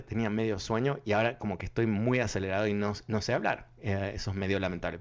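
fast, wired, rushing the words; too much caffeine. Real, not acted. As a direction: speak fast, buzzing on coffee. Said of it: "Tomé demasiado café esta tarde".

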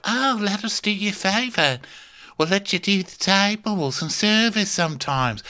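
high, sweetly fake offer; lightly mocking false generosity; scheming coworkers. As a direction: lure her in with sugary kindness. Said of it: "they're like".

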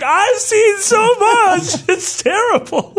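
mock-tragic hunter groaning through a laugh; haunted hunter. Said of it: "he's like".

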